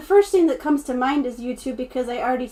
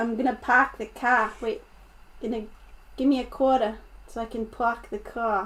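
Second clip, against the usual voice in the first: put-on Boston accent on every word; 5 dB quieter than usual. Trying out the only accent they can do: boston accent. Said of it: "Is that a good Boston accent?".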